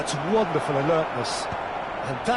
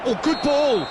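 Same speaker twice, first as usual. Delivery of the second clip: excited exclamation; 6 semitones higher, 5 dB louder than usual. Acted. Commentator praising a pass.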